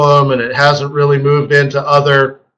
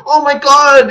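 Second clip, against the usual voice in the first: higher, frantic mock gasp; panicked pundit; 9 semitones higher than usual. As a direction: play the pundit losing it. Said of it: "He's like".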